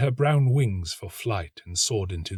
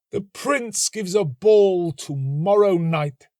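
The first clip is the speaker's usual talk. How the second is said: high, slow dreamy murmur; student daydreaming of the ball; 10 semitones higher, 5 dB louder, slower than usual. A narrator's reading. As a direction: muse on the ball, hushed. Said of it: "murmured the young student".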